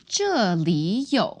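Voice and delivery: 这里有 with 里 rising in second tone; tone change demo. Shown as a demonstration. Teacher shows how to say "here's something", tone change demo. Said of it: "but when we have 这里有, it becomes".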